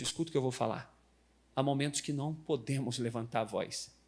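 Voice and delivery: ordinary talk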